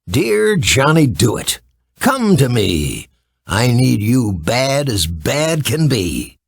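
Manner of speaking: slow, solemn summoning chant; incantation. A narrator's reading. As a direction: call up the helper slowly and deliberately. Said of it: "said these words".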